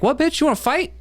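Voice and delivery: high-pitched, challenging mock outburst; mock fighting words. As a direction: imitate yourself squaring up for a fight. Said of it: "And I'm like".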